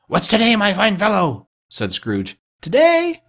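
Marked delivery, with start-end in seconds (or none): 0.1-1.5 high-pitched cheery hail; calling down. A narrator's reading. Scrooge to boy in the street, calling down. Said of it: "calling downward to a boy". 2.6-3.2 put-on very high young boy; boy's voice. A narrator's reading. Boy answering Scrooge from below, high boyish voice. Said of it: "replied the boy".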